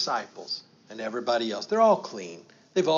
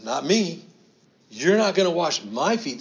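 loud, higher protest as Peter; brash refusal; 4 semitones higher, 7 dB louder than usual. Acted. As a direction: push Jesus away with the words. Peter refusing Jesus washing feet.

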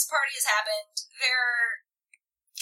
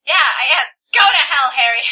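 loud, raised-pitch acted curse; heated, forceful dismissal; angry outburst; 4 semitones higher, 12 dB louder than usual. A narrator's reading. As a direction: hurl it at someone in a quarrel. Tessa curses Harry in the quarrel.

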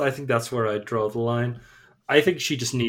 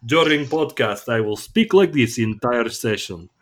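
Russian accent; 4 dB louder than usual. Shown as a demonstration. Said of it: "the Russian, eh, impression you just done there".

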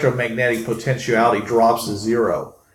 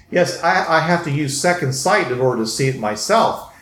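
oily scheming vizier; 3 semitones higher than usual. Acted. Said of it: "He says".

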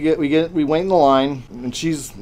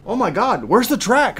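higher-pitched pretend alarm; mock panic; 9 semitones higher, 3 dB louder than usual. Dad teasing his daughter on the lift hill, mock panic. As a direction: act out a put-on scare.

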